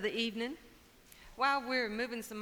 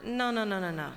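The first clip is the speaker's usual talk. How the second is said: patient buzzard; 2 semitones higher than usual. Acted. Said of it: "Buzzard says".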